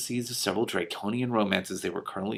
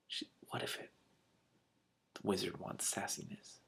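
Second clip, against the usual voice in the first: soft whisper wondering aloud; whispered musing; 2 semitones lower, 16 dB quieter than usual. Real, not acted. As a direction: whisper a wild theory to yourself. Reader musing to herself.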